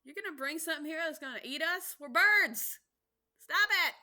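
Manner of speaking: high, shouting panic; panicked birds. Retold or imitated. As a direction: shriek in outrage.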